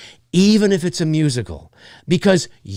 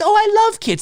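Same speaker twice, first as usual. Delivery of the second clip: high, light mock gush; mock gushing parent; 12 semitones higher than usual. Mimicking a parent claiming to love kids, mock gushing. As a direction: gush like a fake kid lover. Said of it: "when a parent says".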